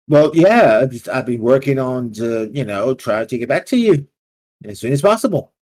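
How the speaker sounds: a debtor scrambling for excuses; nervous babbling. Acted. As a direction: talk fast to dodge the debt. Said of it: "he starts babbling".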